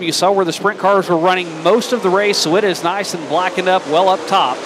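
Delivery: energetic dirt track play-by-play; motorsport commentator. Acted. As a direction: keep the race call rolling. Live race play-by-play call.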